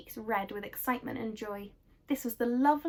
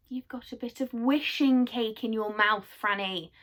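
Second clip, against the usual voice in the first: shouting; 5 dB louder than usual. Acted. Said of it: "shouted Moonface".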